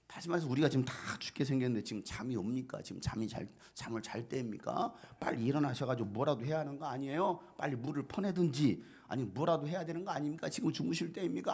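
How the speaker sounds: mildly heated, rapid-fire scolding; acted indignation, pitch climbing as it goes; angry disciples. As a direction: protest as if urging a sleeper up. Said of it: "화를 내는 그런 제자들의 모습".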